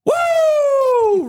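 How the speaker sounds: high hunting holler to stop the deer; high, loud woo. Retold or imitated. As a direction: whoop out high and sharp. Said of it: "but I hollered like that".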